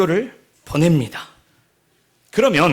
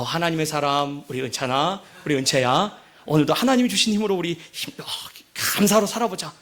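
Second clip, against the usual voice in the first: gentle pastor wake-up; 3 semitones lower than usual. Retold or imitated. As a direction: sweetly wake the children with a blessing. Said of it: "또 제가 목사지 않습니까?". (목사 아빠가 자는 아이들을 부드럽게 깨우듯)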